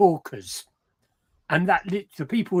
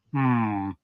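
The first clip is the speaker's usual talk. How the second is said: lower, lightly voiced dad giving cautious advice; a hint of a low, unhurried father; imitating dad; 5 semitones lower than usual. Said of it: "And my dad would say".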